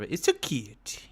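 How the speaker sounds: a hint of caricatured Asian woman; brief put-on Asian accent; lightly voiced Asian woman impression; mock Asian woman accent. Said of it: "speaking like an Asian woman".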